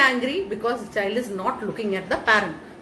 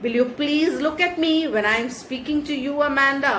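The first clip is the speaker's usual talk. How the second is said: a hint of a scolding parent, slightly higher; commanding parent; 5 semitones higher than usual. Teacher voicing the parent scolding the child. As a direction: demand she look at you. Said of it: "The parent is coming and commanding".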